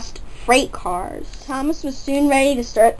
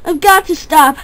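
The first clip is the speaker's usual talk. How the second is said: puffing; 5 semitones higher, 4 dB louder than usual. Acted. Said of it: "puffed Thomas out of breath".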